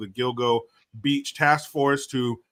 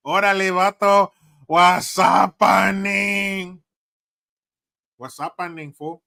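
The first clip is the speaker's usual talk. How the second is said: put-on higher, loud LA cholo accent, drawn out; mock LA cholo accent; 7 semitones higher, 8 dB louder, slower than usual. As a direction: greet him like an LA cholo from the movies. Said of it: "Like that cholo you see in the movies".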